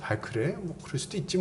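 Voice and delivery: softly, easygoing and unbothered; relaxed easygoing. Retold or imitated. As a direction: shrug it off lightly. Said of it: "여유 있게 허허 웃으면서". (여유 있게 허허 웃으며 너그럽게)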